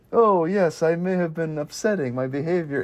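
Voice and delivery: lightly imitated old gentleman; old white man. Old man in young body apologizing, lightly mimicked elderly voice. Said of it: "playing as an old white man".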